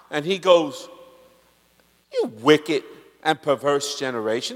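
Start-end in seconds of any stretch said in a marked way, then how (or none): 2.1-4.6 low, angry rebuke with a shout in it; preacher voicing Jesus rebuking the Pharisees with a shout. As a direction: thunder it at a wicked crowd.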